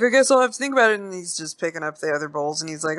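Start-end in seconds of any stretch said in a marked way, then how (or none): 0.0-1.0 put-on high-pitched, hesitant old man; old dude. Old dude playing along with the stranger, high hesitant voice. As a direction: play the old man hedging in a raised voice. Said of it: "the old dude's like".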